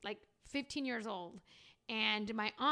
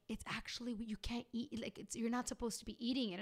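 aunt hushed confession; 5 dB quieter than usual. Retold or imitated. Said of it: "She's like".

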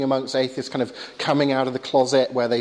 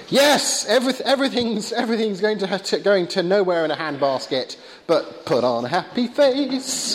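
mock existentialist; 5 semitones higher than usual. Speaker sums up Dawkins as an existentialist, mock cheery. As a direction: start high on a mock-bright yes, ease down. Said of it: "sort of goes an existentialist kind of route and says".

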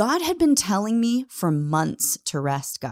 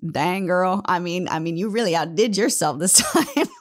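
cocky, pleased with herself, laughing at the end; proud self-praise. Retold or imitated. To herself at night, proudly impressed, laughing. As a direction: pat yourself on the back with a chuckle. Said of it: "I would look back and be like".

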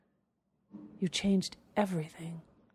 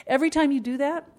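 excited; 7 semitones higher, 4 dB louder, faster than usual. Real, not acted. Excited repeat of the point.

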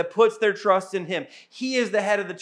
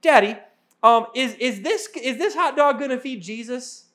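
put-on little girl talking through a mouthful; child voice, food in mouth; mouth full; 4 semitones higher than usual. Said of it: "with a mouthful of hot dogs".

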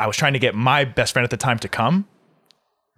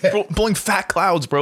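laughing bro voice; 6 semitones higher than usual. Pretend. Mocking vape kids.

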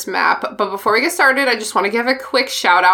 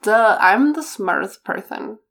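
mock know-it-all. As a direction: put on a slightly silly know-it-all voice. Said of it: "I was like".

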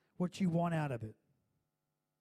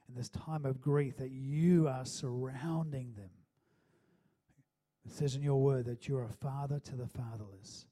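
earnest public prayer, slightly lowered pitch; spoken prayer. Real, not acted. Pastor praying to God for a bereaved church family, spoken prayer. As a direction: pray aloud over a grieving family.

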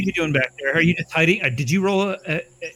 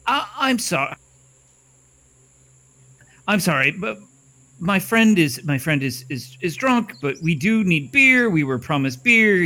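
apologetic servant. Acted. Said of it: "and I go".

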